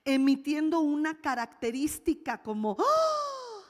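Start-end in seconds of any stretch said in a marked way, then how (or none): 2.8-3.6 high, loud, drawn-out "ah" of amazement; acted cry of surprise; demonstrated surprised cry. Shown as a demonstration. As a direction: let out a held high cry of astonishment. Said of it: "tiene el sentido de gritar".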